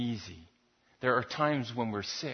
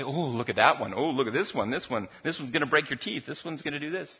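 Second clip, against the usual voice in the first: put-on excited kids. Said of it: "they begin to ooh and ah and say".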